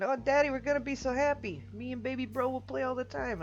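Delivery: put-on a son thrilled about a baby brother; bouncy high kid voice; excited child voice. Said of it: "he starts laughing".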